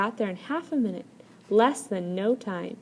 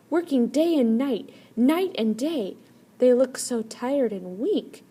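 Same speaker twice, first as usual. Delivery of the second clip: higher, louder, slowing on the tired men; pitying second brother; 5 semitones higher, 6 dB louder than usual. A narrator's reading. Second brother tells the brothers of the weak workers, pitying. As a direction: report the sad sight with pity.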